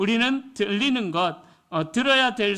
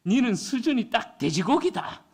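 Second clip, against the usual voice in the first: blunt Gyeongsang husband; 4 semitones higher than usual. Retold or imitated. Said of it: "무식한 경상도 남편".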